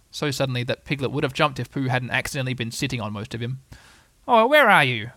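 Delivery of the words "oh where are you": high, loud searching call; Tigger, calling. Acted. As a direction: call out for lost friends. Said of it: "called Tigger".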